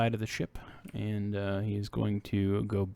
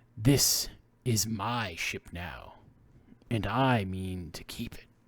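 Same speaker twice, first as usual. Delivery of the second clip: said with a snarl. A woman confronts unwanted visitors aboard the ship, snarling. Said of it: "She snarls at you".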